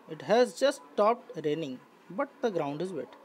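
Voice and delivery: very slow, each word spaced out; slow classroom dictation; slow model reading. Shown as a demonstration. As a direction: read the question slowly for the class. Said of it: "teacher reads model sentences".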